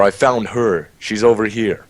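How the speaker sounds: a toned-down call to the others; milder mock yell. Player correcting the bait call for the guys, milder mock yell. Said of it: "but yell".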